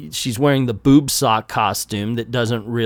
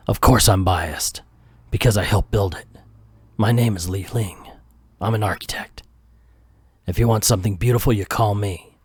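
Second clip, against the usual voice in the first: a hint of low hardboiled narration; noir detective; 5 semitones lower than usual. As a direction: read it like a moody noir voiceover. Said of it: "I'm gonna read it like a noir".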